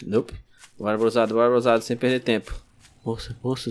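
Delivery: usual speaking voice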